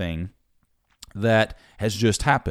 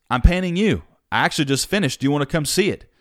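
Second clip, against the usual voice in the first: eager painter; 6 semitones higher, 3 dB louder, faster than usual. Retold or imitated. Painter voiced in story.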